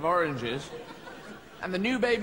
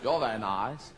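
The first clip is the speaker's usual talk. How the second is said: mouth full of orange; 6 semitones lower, slower than usual. Retold or imitated. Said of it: "who speaks like that".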